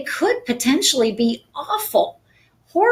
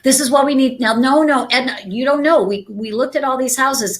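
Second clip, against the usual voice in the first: louder, pressing agent voice; pushy and louder; 4 semitones higher, 3 dB louder, faster than usual. Shown as a demonstration. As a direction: push back on the client, raised and insistent. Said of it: "your natural tendency is gonna be to talk faster, to talk louder".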